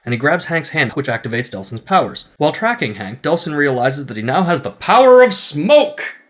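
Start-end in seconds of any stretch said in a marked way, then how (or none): 4.2-6.2 slow, louder big reveal; dramatic reveal. Acted. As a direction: announce it like a trailer. Grand reveal of the power.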